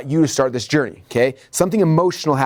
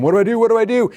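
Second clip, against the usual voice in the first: higher, rising panicked self-talk; mock panic; 9 semitones higher, 4 dB louder than usual. Speaker retells losing Marcus's attention, mock panicked. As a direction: play up a rising inner panic.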